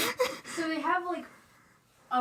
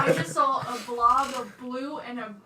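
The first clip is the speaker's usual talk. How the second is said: louder, laughing through the words; 7 dB louder than usual. Real, not acted. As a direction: let the laugh carry the line. Laughs while telling story.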